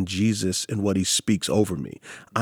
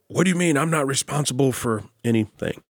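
defensive evangelical; 3 semitones higher than usual. Retold or imitated. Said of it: "typically evangelicals go".

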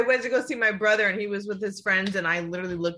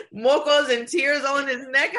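tearful; 4 semitones higher, 4 dB louder than usual. Real, not acted. Retelling her crying over baby.

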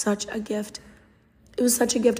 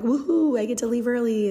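woohoo; 2 semitones higher than usual. Retold or imitated. Celebrating leaving early.

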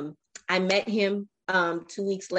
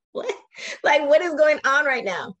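disbelief; 7 semitones higher, 6 dB louder than usual. Retold or imitated. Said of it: "And I was like".

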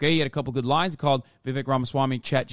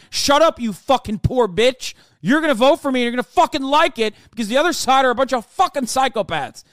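much higher and louder, berating; mock angry yell; 8 semitones higher, 7 dB louder than usual. Mock politician yelling at poor voters, angry. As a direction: bark at the voters.

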